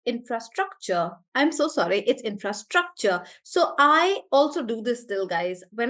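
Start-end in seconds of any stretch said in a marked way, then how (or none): 0.1-1.1 infrastructure with the weight on STRUC; stress on STRUC. Shown as a demonstration. Teacher correcting herself, infrastructure stressed on STRUC. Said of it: "it's actually on struck". 2.2-3.2 infrastructure, leaning on the third syllable STRUC; stress on STRUC. Shown as a demonstration. Teacher apologising and correcting, infrastructure stressed on STRUC. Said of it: "it's actually on struck".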